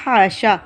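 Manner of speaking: हाशा with a thin, light h; light h sound. Shown as a demonstration. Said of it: "बारीक आवाज़ के साथ". (हाशा बारीक आवाज़ के साथ)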